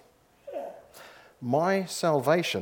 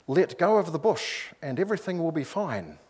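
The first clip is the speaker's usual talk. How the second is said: lightly voiced calm instruction from above; understated voice from the sky; calm powerful voice; 3 semitones higher than usual. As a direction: reassure with a touch of authority. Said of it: "said the calm, powerful voice".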